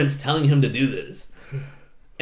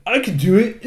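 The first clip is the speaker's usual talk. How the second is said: higher whiny-kid boast, lightly mocking; mock boastful kid; 6 semitones higher, 4 dB louder than usual. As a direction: mimic a cocky kid bragging. Mimics boastful kid, then laughs.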